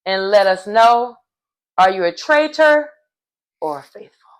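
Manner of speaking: measured imitation of a game host; solemn host pronouncement. Host tells the banished player to reveal himself, solemn. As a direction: pause between phrases, as if passing a verdict.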